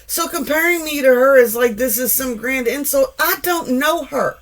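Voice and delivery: high, dismissive clapback; a high, mocking clapback to a coworker; sassy retort. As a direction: brush him off like he's beneath you.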